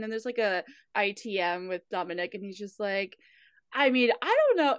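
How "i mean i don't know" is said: put-on Italian accent. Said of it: "speaking in a very thick Italian accent".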